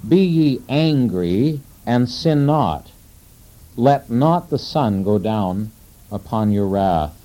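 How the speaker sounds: slow, solemn reading of the verse; scripture reading. Shown as a demonstration. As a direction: read each word out deliberately, like scripture. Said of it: "Verse twenty-six".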